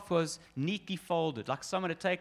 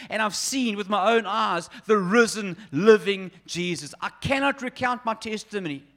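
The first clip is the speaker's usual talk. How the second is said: firm, rising to louder on "living Jesus"; defiant testimony; 4 dB louder than usual. Acted. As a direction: stand your ground, voice swelling. Peter refuses to deny Christ.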